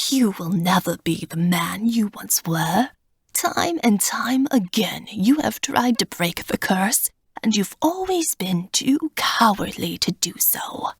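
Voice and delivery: raspy, scornful taunt; sneering cold old god; taunting old man. Acted. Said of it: "Zirnitra taunts".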